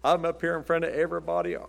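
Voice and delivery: mock show-off. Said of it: "putting on a show and saying".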